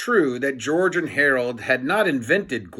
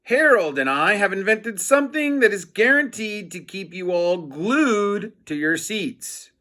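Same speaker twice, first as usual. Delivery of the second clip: mock announcer; 5 semitones higher than usual. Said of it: "said George".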